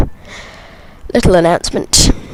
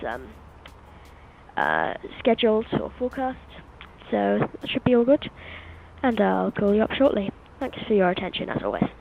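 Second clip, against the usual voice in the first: pilot announcement over the radio; captain's PA announcement; 12 dB quieter than usual. Acted. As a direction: cabin PA, calm and formal. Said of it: "popping a quick announcement in a second over the radios".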